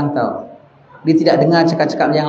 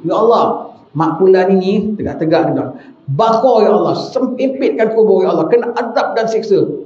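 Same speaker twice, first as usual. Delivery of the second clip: mock curse prayer; 3 semitones higher than usual. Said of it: "kawan ni dia begitu".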